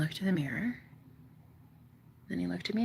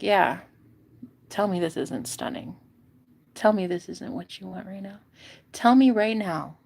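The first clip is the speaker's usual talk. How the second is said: sassy challenge. Retold or imitated. Her daring boyfriend at the mirror, sassy challenge. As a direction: dare him to deny it.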